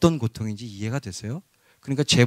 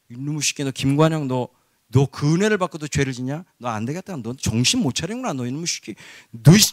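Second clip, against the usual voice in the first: mock scolding. Preacher voicing God scolding a sinning believer, mock angry. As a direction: play God as a stern father about to punish. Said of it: "하나님 이렇게 혼내시려다가".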